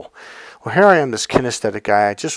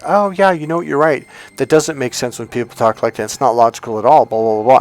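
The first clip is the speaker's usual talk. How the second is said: eager mock agreement; 5 dB louder than usual. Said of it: "I'm like".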